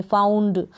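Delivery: फाउंड as one word, n running into d; half न straight into ड in फाउंड; blended nd ending. Shown as a demonstration. Teacher modelling the correct pronunciation, blended nd in फाउंड. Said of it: "ये pronunciation correct है".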